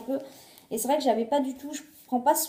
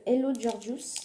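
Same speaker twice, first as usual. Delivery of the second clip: English brand name in a thick French accent; bad French-accented English; slower than usual. Real, not acted. Vlogger reading out the mirror's brand, French-accented English. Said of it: "Je suis désolée pour mon accent pourri".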